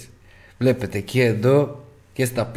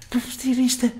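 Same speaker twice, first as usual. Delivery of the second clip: mocking quote; 13 semitones higher than usual. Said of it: "σε ένα live που λένε".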